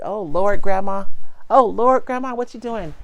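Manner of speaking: loud, high mock exclamation; playful baby voice; voicing the baby. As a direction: put words in the toddler's mouth. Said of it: "she's like".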